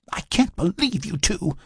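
high-pitched, exasperated complaint; complaining. A narrator's reading. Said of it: "she complained".

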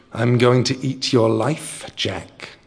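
troll threat. Acted.

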